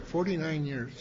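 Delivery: forty-nine years said softly, almost to himself; soft aside. Real, not acted. Speaker marvelling to the crowd at forty-nine years, softly. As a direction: let it drop away in quiet wonder.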